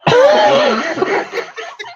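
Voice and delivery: loud, very high burst of laughter; shrieking laugh. Real, not acted. Reacting to a friend's joke, shrieking with laughter.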